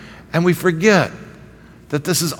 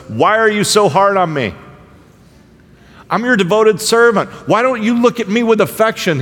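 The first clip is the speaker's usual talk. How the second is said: Moses complaining; 7 semitones higher than usual. Retold or imitated.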